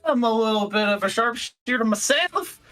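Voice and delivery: a light put-on cowboy accent; star-struck kid in a half-hearted cowboy accent. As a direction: lean on a mild cowboy twang, playing cool. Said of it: "I don't know why I started the accent".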